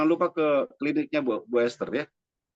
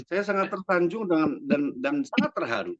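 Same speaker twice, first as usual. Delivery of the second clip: mock-dramatic, laughing as he starts; playfully overdone thanks; dramatized. Shown as a demonstration. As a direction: ham up the gratitude a little. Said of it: "dramatisir suasana dong".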